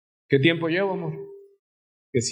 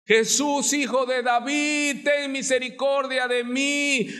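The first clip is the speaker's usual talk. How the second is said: crying out; 8 semitones higher than usual. Retold or imitated. Preacher voicing the blind man crying out to Jesus. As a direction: call out for mercy from the crowd. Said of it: "como le gritaba".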